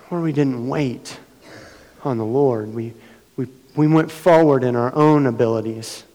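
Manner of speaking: earnest prayer to God, rising; confession prayer. Retold or imitated. Pastor retelling his confession prayer to God, earnest. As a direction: confess before God, building. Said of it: "a kind of a confession time".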